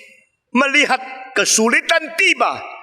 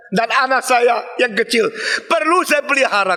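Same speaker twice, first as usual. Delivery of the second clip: a preacher's lightly voiced widow, higher and protesting; indignant widow; 4 semitones higher than usual. Widow of Sarafat refuses Elijah's request for food, higher, protesting. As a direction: play the poor widow refusing, pressing each tidak.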